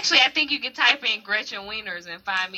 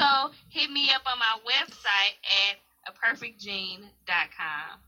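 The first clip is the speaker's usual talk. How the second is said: trailing off, much softer; too quiet; 2 semitones lower, 6 dB quieter than usual. Real, not acted. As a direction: let the end fade to almost nothing. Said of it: "Say it again a little louder".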